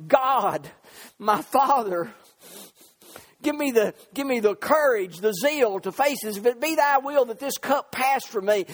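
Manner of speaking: lightly acted, urgent pulpit plea; pleading prayer. Preacher voices Jesus praying in the garden, pleading.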